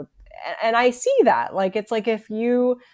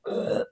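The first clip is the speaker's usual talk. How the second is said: imitated burp grunt; 6 dB quieter than usual. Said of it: "and then be like".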